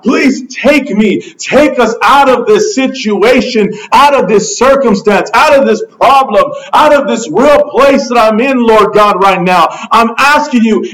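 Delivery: acted begging, phrase piled on phrase. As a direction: implore God with steady insistence. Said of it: "And we're begging God".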